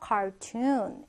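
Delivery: "cartoon" with the final oo held long. Shown as a demonstration. Teacher showing the double-o sound, "cartoon" with a long oo. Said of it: "오 발음을 좀 길게 하는 거예요".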